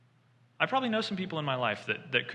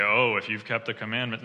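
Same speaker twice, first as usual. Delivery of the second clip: mock sarcastic jab, a touch louder; sarcastic ribbing; 2 semitones lower, 4 dB louder than usual. Preacher mocking a sarcastic Jesus to the rich man, lightly sarcastic. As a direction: rib him with light sarcasm. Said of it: "sarcastically ribbed the guy".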